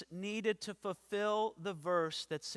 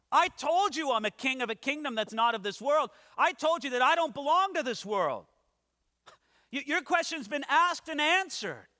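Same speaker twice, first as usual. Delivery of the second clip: higher, louder, fast at first and unbending; firm Jesus; 5 semitones higher, 4 dB louder than usual. Acted. Preacher voicing Jesus rebuking Pilate's repeated question, firm and unyielding. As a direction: shut the question down, already answered.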